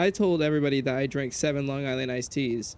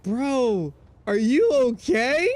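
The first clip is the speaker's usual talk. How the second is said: concerned friend; 7 semitones higher, 5 dB louder, much slower than usual. Retold or imitated. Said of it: "He's like".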